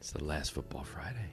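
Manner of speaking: very soft, hushed, sultry, seductive voice. Saying an ordinary line like a love language, sexy tone. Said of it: "if you said it in like a, a love language, like you said it sexy".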